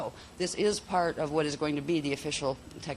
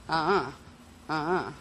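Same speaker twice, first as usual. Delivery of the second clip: two-syllable tone. Shown as a demonstration. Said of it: "So if you had the two syllable".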